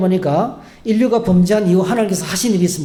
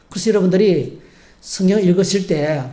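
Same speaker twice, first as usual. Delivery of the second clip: ordinary talk, nothing marked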